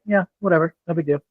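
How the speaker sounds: laid-back shrug of a line; nonchalant. Shown as a demonstration. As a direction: toss it off like nothing matters. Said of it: "My tone is always nonchalant, laid back".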